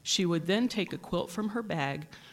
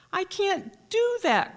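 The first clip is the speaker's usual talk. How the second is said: high, slow, wailing king voice; king's anguished cry; 13 semitones higher, 4 dB louder than usual. A narrator's reading. The king refuses to give his treasures, wailing high. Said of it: "cried the king".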